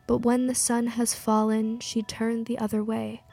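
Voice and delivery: measured poetry reading, pausing between phrases; poem recital. Acted. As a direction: recite it evenly, line by line. Poem read aloud to music.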